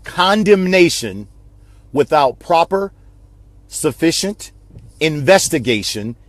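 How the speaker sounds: slow, with pauses between each phrase; real nice and slow. Shown as a demonstration. Repeating the saying slowly to his viewers. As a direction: spell it out slowly, word by word. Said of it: "Let me say it one more time, real nice and slow".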